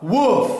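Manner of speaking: imitated dog bark, slightly high; a short storybook woof; dog's bark. A narrator's reading. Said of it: "she barked".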